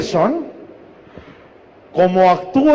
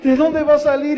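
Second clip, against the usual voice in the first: retold crying prayer; 6 semitones higher than usual. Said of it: "si me la paso llorando".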